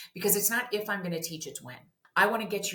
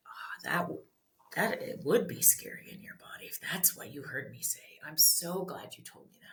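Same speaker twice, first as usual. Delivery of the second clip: put-on whispered comfort to a frightened child; soothing whisper; 4 dB quieter than usual. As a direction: breathe the words gently to calm them.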